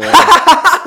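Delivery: loud high burst of laughter; luide lach. Retold or imitated. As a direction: laugh far too loud for the room. Imitating loud talkers in quiet places. (luid en hoog schaterlachen)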